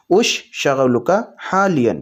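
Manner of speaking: slow, careful "اش شغلک حالین"; slow Arabic demo. Shown as a demonstration. Teacher modelling the Arabic question slowly for viewers. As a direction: stretch out "اش شغلک حالین" word by word. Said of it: "آپ اس طرح سے پوچھیں گے".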